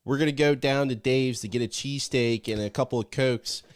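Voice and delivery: a Delco accent, local Philly-suburb twang all through. Shown as a demonstration. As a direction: lay on a thick Delco accent for the cheesesteak run. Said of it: "Do it".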